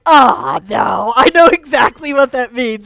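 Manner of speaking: loud groan of oh no, I know what this means; alarmed exclamation. Retold or imitated. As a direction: blurt out the dread all at once. Realizing car was hit.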